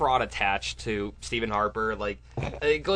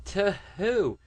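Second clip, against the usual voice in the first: high-pitched incredulous question; challenging comic; 11 semitones higher than usual. Retold or imitated. Comic challenging his critics, mock incredulous. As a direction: throw back a retold challenge, pitched up. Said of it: "And then he's like".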